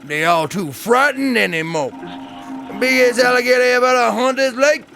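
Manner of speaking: lightly voiced old swamp woman, grieving; mourning her lost child, voice rising at the end; old bayou woman. Hunter's widow telling the stranger about the gator.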